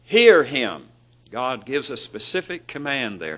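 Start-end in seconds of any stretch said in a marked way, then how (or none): 0.0-0.9 high, loud booming proclamation from above; voice of God. Retold or imitated. God speaking from the cloud to the disciples, high and booming. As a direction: announce it like a voice out of the cloud. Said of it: "a voice came out of the cloud saying".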